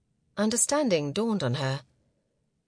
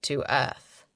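man's voice; 5 semitones lower than usual. Acted. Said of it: "he replied".

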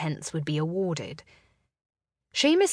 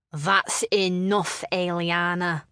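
admonishing; slower than usual. Acted. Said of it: "Seamus admonished her".

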